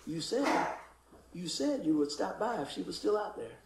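hushed retold nudge from within; quiet inner prompting. Retells a tug at his heart.

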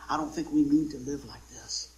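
tight, pinched delivery; clenched and tight. Shown as a demonstration. Preacher showing the congregation a clenched heart, tight. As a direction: say it all clenched up. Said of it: "We got our heart clenched like this".

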